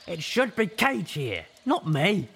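put-on high, loud, upset young griffin; griffin girl shout.

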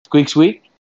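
loud, high squirrel squeaks with a rising end; squeaked question. Pretend. Interpreter making sure with the squirrel, squeaked question. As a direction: ask to confirm in squirrel squeaks.

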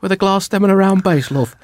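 high put-on wife voice; wife catching a mistake. Wife noticing glasses not eggs, high put-on voice. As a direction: pitch it up, startled wife. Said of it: "range of accents".

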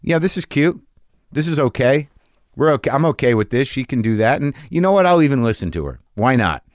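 forced self-reassurance. Retold or imitated. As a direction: talk yourself into being okay, a touch sing-song. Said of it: "I say to myself".

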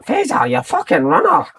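high, slow mock yell of a coach; mock coach shout. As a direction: bellow it like an old team-mate blaming you. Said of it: "he used to shout to me all the time".

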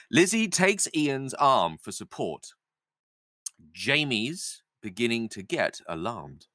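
slow, deliberate table-read narration; stage-direction narration. A narrator's reading. Narrator sets up Jamie's growing alarm, slow measured reading. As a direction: read the direction slowly, pausing between sentences.

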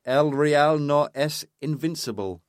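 amateur's best Spanish accent, slow. Shown as a demonstration. Co-host quoting a player on Real Madrid, in a Spanish accent. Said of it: "in my best Spanish accent".

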